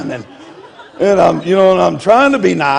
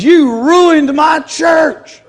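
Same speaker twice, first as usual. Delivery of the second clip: slow, drawn-out shouted accusation, higher; angry accusation; 8 semitones higher, much slower than usual. Retold or imitated. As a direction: lay each word down hard like an outraged accuser. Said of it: "And he says".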